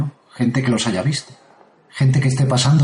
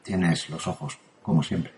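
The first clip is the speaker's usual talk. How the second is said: shaken murmur; 5 semitones lower, 7 dB quieter than usual. Real, not acted. Relieved, shaken after the scare.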